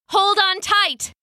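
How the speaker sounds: high, slow, excited call out; rally them to hold on. Acted. Stevie shouting as they fly.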